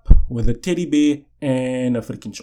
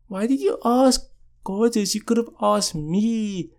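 jealous friend; 8 semitones higher, 5 dB quieter than usual. Retold or imitated. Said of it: "She's like".

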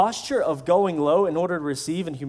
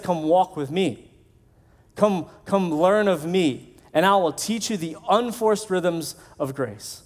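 gentle invitation; slower than usual. Retold or imitated. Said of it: "And Jesus said".

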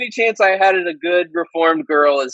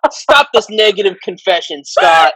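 preacher rebuke. Pretend.

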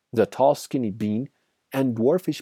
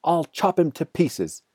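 high-pitched threatening call; shouted; 8 semitones higher than usual. A narrator's reading. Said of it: "shouted Bunce".

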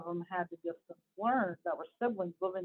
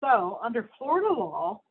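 emphatic read-aloud of an article; lightly heightened news-reading voice; 5 dB louder than usual. Acted. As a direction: read it out to listeners, punching key words.

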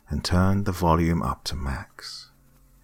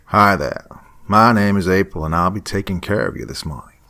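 light Southern waitress greeting, louder and brighter; slight southern accent; 3 semitones higher, 5 dB louder than usual. Acted. Waitress April greets the customers, slight Southern accent. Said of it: "in a slight southern accent".

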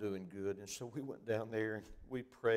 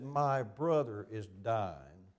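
pained outcry; 8 dB louder, much slower than usual. Retold or imitated. Grieving man retold in sermon.

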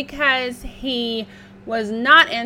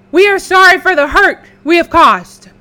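high loud apology; pleading pig; 7 semitones higher, 14 dB louder than usual. Acted. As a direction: plead for forgiveness. Black apologizing in panic.

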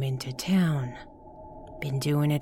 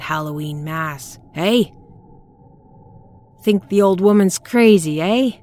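put-on shrill, frantic old crone yelling; screaming old woman; 4 dB louder than usual. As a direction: scream it at the listener, half mad. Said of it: "Zelda was really screaming now".

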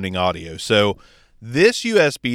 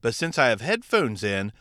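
turned away from the mic so the voice sounds softer and distant; off the microphone; 4 dB quieter than usual. Shown as a demonstration. Podcaster showing viewers how drifting off mic sounds, softer and off-axis. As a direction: drift off-axis and let the sound go thin and far. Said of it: "I'm over here to the left a little bit off the microphone".

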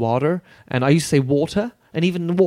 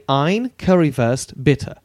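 simple German order; much slower than usual. Shown as a demonstration. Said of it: "And you could just say".

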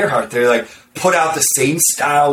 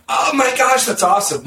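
imitating a delighted yelp, much higher; mock excitement; 10 semitones higher than usual. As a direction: gush like a flattered newbie. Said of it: "most people would be like".

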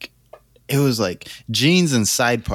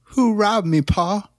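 hammed-up Southern drawl, higher pitch; Southern accent; 6 semitones higher, slower than usual. Actor doing a dramatic take in a Southern accent. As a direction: overact the take with a Southern twang. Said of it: "What the fuck was that?".

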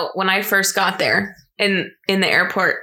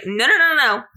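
higher, rapid-fire string of denials; retold protest; 6 semitones higher, much faster than usual. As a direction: take it all back in a hurry. Retold alarmed self-correction.

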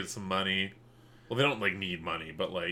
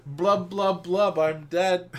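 drowning impression; 8 semitones higher, 5 dB louder, slower than usual. Shown as a demonstration. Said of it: "drowning imper-, impression".

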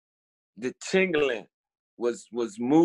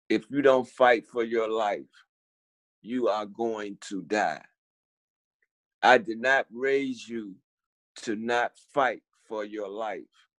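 slow, measured warning, lightly voiced; mother's voice in a dream; 4 semitones lower, slower than usual. A mother's voice warning her child in sleep, slow and deliberate. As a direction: deliver it slowly, word by word. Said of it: "it was like some, a voice had came to me".

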